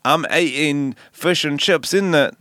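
hammed-up Irish accent; a quick jokey Irish lilt. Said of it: "What, what accent was that?".

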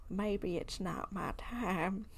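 stammering, hushed surrender; rising, wavering ask for a truce; nervous plea. Acted. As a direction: stutter it out, scared for his life. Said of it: "Gramps is like".

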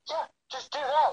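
lightly voiced wife, brushing it off as obvious; wife's simple advice. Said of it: "She's like".

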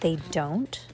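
soft, low, let-down question; crestfallen, the hope draining out; disappointed. Acted. Cass hears there are countless symbols, crestfallen. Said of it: "Cass's face fell".

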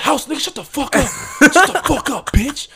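high, loud mock yell at the boys; a stranger yelling insults, hammed-up; imitated shout. Stranger yelling insults at two passing players, high loud mock shout. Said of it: "he's like".

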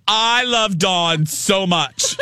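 slow, high, laughing gush; mock tipsy gushing, laughing. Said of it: "She's like".

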